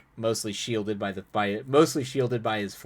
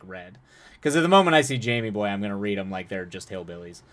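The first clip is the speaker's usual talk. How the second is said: normal talking voice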